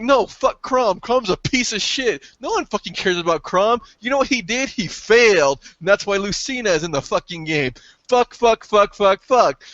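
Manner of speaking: worked-up retold outburst, pitched high; angry rant. Re-enacts angry rant about Chrom.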